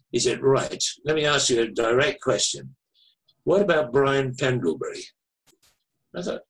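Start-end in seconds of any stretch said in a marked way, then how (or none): 0.4-5.0 lightly imitated Manchester caller; Mancunian accent. Caller questioning the author, in a Manchester accent. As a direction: put a direct question with a Mancunian touch. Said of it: "very distinctive Manchester, Mancunian, uh, accent".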